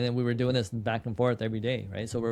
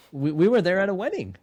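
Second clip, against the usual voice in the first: giggling through the words, pitched up; amused, laughing as you speak; laughing at how it happened; 6 semitones higher, 3 dB louder than usual. Real, not acted. Laughing at the wedding coincidence.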